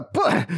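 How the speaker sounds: cut-off cry. Acted. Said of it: "Крокто пнул его в живот".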